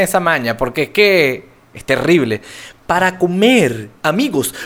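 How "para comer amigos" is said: slow, drawn-out radio host voice; radio announcer. Shown as a demonstration. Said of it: "voy a hablar como si estuviera en la radio".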